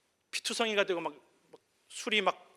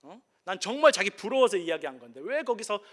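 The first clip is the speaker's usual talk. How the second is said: raised, louder acted bewilderment; baffled protest; 3 semitones higher, 6 dB louder than usual. Father who went out to console, acting genuinely baffled. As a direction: protest innocence as the clueless father. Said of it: "자기는 진짜 모르겠다는 거예요".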